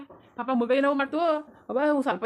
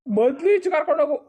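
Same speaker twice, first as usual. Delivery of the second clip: angry order. Acted. Elder ordering the baby taken out, angrily. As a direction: bark the threat at him.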